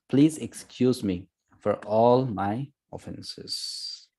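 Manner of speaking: slow, measured verse reading; scripture reading. Acted. Teacher reads Arjuna's apology to Krishna, slow solemn reading. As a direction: read it out slowly, phrase by phrase.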